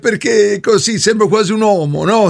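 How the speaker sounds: fake woman's voice. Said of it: "la voce un po' bracuta".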